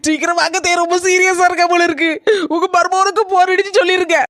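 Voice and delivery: worried daughter-in-law crying on the phone; tearful. Acted. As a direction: voice catching with tears. Daughter-in-law fakes worry on phone.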